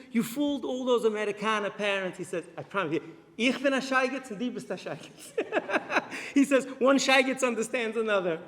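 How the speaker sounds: put-on high, loud Hasidic accent, laughing; the father delighted and teasing; father praising the rabbi's trick in Hasidic accent. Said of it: "with the thick Chassid".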